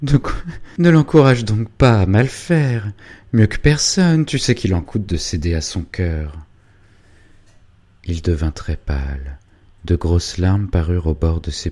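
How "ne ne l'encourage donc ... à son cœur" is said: anxious reproach. Acted. Hubertine reproaches her husband.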